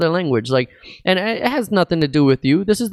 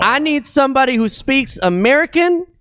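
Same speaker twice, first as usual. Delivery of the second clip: rude caller; 10 semitones higher than usual. Retold or imitated. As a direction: mimic the ignorant caller. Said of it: "And they're like".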